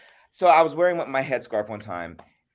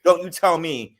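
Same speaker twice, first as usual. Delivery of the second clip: mock indignant retort; 6 semitones higher, 5 dB louder than usual. Levon telling the friend off about the headscarf, indignant.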